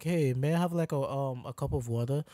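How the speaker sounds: polite, easygoing customer asking; civilized request. Shown as a demonstration. Customer politely asking for a cup of water, civilized. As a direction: model a casual, civil request. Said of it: "come in as a civilized person".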